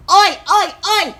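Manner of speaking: loud, high Australian "Oi, oi, oi!" call; Aussie "oi" shout. Pretend. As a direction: bellow it like an Aussie mate across the yard. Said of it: "Australians would know what that means".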